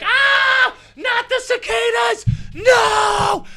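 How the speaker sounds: high, shrill-free cartoon shriek, stretched out; mock terrified scream. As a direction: scream like the bugs are right behind you. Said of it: "I'm screaming".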